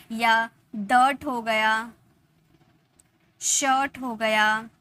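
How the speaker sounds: डर्ट, शर्ट with a short uh-sound, said slowly; slow careful er words; slow demo words. Shown as a demonstration. Teacher models the er words slowly. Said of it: "अ में की जाती है".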